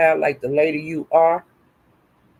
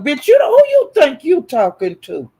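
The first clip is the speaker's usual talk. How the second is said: scripted confrontation; 6 semitones higher than usual. Acted. Streamer scripting what Sassy should yell at her enemies, furious shout. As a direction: snap back at them, furious. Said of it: "Tell 'em".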